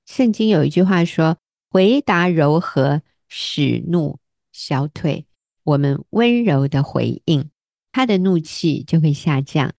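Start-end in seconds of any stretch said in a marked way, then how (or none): 1.7-5.2 gentle scripture. Shown as a demonstration. Reciting a Bible verse.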